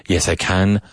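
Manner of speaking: short flat a in can, Yes, I can; London vowel. Shown as a demonstration. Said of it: "a difference in the vowel sound".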